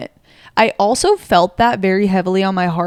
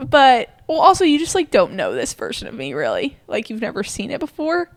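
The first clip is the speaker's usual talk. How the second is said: real tearful, wavering pitch; tearful, voice jumping high and dropping; close to tears; 4 semitones higher than usual. Real, not acted. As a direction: push on while getting emotional. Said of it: "Why do I always cry".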